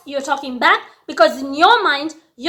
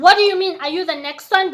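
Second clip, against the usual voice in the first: indignant retort; 4 semitones higher than usual. Retold or imitated.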